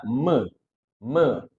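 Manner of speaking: ME said as "muh"; m plus schwa. Shown as a demonstration. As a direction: hum the m, open into a schwa on ME. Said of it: "kita tambahin suara E".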